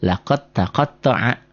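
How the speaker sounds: measured "Laqad taqatta'a", joined as laqat-taqatta'a; d merged into t. Shown as a demonstration. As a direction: recite "Laqad taqatta'a" slowly, d swallowed into a doubled t. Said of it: "jadi laqad".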